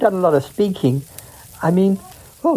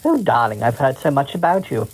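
Queen voice; 3 semitones lower than usual. Acted. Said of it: "I got to play the Queen".

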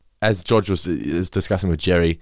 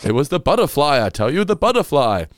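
laughing; 6 semitones higher than usual. Retold or imitated. Mock-panicked excuse, laughing.

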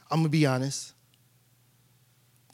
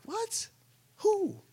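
shocked what; 12 semitones higher, 6 dB quieter than usual. Retold or imitated. Hearing news of the capital attack.

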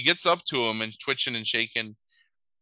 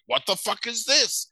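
high-pitched, incredulous outburst; acted-out disbelief, pitched up; mock shocked demand; 10 semitones higher than usual. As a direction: react as if appalled by what's on the wall. Shocked at the shrine, retold.

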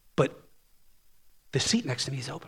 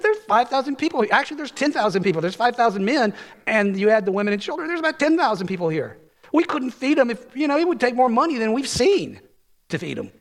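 exasperated disciples; 6 semitones higher, 5 dB louder than usual. Retold or imitated. Disciples protesting to Jesus.

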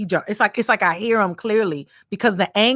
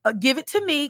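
higher, gentle coaxing voice; God asking for a softened heart, pitched up; 6 semitones higher than usual. Retold or imitated. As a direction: talk someone down from their anger. Voicing God coaxing calm.

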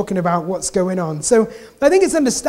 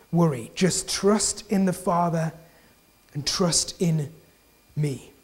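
reassuring Jesus; 3 semitones lower, 4 dB quieter than usual. Retold or imitated. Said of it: "But he's like".

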